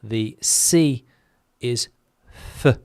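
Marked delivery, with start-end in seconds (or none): 2.6-2.8 "th" said alone, loud and crisp; phonetic TH sound. Shown as a demonstration. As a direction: isolate the sound "th" as in Castilian C. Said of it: "phonetic pronunciation of".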